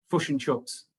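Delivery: "Fush and chuts" in a mock New Zealand accent, i flattened to u; lightly mocked Kiwi vowels. Scot in Australia teasing the Kiwi accent, mock New Zealand vowels. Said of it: "and Kiwi, what I've always been told is".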